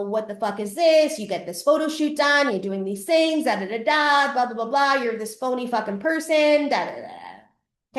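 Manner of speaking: imitating an ex's tirade, half-hammed; ex yelling. Ex-boyfriend yelling at her in his kitchen, mocked rant. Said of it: "he's yelling at me".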